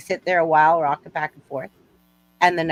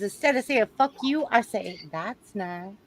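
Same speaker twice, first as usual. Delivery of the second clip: put-on Southern accent; 2 semitones higher than usual. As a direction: deliver the punchline with Southern sweetness. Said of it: "I like your Southern accent".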